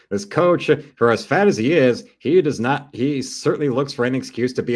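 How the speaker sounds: loud, high, worked-up rant. Real, not acted. Ranting at the coach on TV, loud and high. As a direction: blast the coach on the screen.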